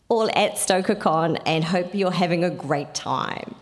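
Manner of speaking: put-on a loosely done British accent, Kiwi showing through. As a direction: read it in a rough British accent. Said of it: "do this in a British accent".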